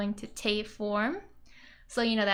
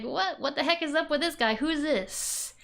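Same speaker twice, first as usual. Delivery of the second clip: mock tough guy; 5 semitones higher than usual. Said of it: "being all masculine and declarative".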